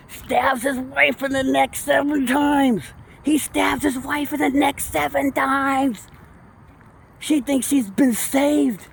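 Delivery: slow, grave, pitched high; slow horrified telling. Real, not acted. Podcaster retells the murder to listeners, slow and aghast. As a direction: let the horror sink in slowly.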